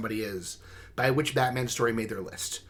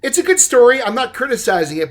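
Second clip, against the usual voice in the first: much higher and louder insistence; emphatic; 10 semitones higher, 10 dB louder than usual. Real, not acted. Host defends a song to guest, high and emphatic. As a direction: insist it is a good story.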